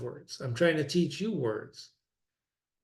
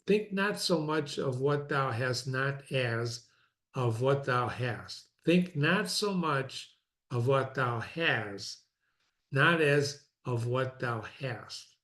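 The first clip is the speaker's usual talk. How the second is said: put-on slow, deliberate reading of an old text; slower than usual. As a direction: weigh each archaic word, slowly. Reads Marcus Aurelius slowly.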